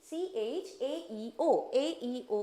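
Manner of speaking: letters drawn out very slowly; slow spelling. Shown as a demonstration. Teacher stressing the tricky letters to remember. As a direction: spell it out one letter at a time. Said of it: "ध्यान रखना है".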